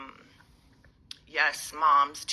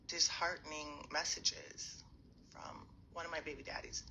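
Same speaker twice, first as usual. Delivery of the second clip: whispering; 11 dB quieter than usual. Real, not acted. Whispers over a sensitive topic.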